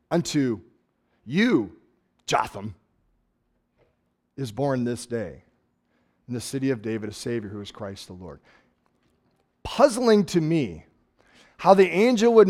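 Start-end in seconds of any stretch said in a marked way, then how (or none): 0.1-8.4 softer, turned to one shepherd; intimate announcement. Acted. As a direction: lower and softer, almost confiding. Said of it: "he turns to one".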